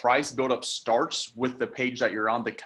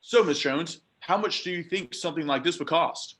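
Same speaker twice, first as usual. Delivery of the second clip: higher, eager rookie asking the price; rookie mistake question; 5 semitones higher than usual. Shown as a demonstration. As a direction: play the naive rookie seller. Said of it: "big question that I see a lot of people say".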